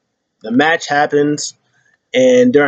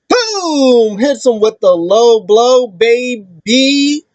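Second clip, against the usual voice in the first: much higher, slow announcer-style boom; hype call; 9 semitones higher, much slower than usual. Retold or imitated. Excited wrestling play-by-play.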